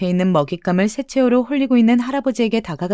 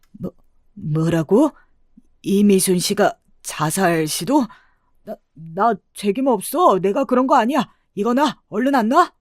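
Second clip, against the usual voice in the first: stammer, then protest in mounting panic; flustered panic. Acted. Cornered swindler denying blame for suicide attempt, panicking.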